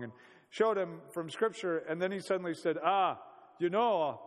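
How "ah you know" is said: lightly imitated Afrikaner accent; mock Afrikaner gentleman's accent, changing the subject; attempted Afrikaner accent. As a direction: have a rough go at an Afrikaner accent. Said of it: "I can't do an Afrikaner accent".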